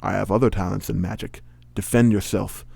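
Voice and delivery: put-on measured Connery-style villain accent; Sean Connery accent. Magician drawing his sword, in a Sean Connery-like accent. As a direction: challenge them in a Connery-like accent. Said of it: "starring Sean Connery as Evil Trent".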